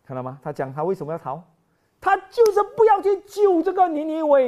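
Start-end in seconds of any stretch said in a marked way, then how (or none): 2.0-4.5 loud exclamation. Real, not acted. Preacher exclaims loudly.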